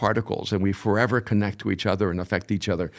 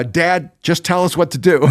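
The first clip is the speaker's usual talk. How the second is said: put-on kids pleading with dad; 7 semitones higher, 5 dB louder than usual. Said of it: "the only two kids in the world that have said".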